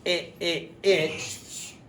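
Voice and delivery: "it" as a clipped short vowel; short i "it" repeated; short i demo. Shown as a demonstration. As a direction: pop out "it, it, it". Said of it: "I for".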